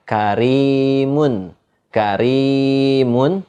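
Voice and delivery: karimun with thin r, long ee. Shown as a demonstration. Teacher showing kasroh example, thin ro in karimun. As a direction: draw out the ri in karimun, r light and thin. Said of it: "karimun itu dibaca tipis".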